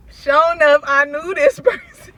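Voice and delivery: thrilled recognition; excited. Real, not acted. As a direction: burst out with delighted disbelief.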